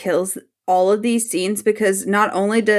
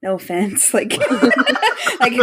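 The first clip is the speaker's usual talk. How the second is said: laughing. Retold or imitated. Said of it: "he's like".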